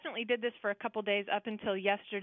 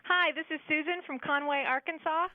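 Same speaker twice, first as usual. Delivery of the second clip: cheery, higher-pitched hello; chipper; 5 semitones higher than usual. Real, not acted. Caller introduces herself to the radio hosts, chipper. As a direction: chirp a friendly introduction. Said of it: "you sound very chipper today".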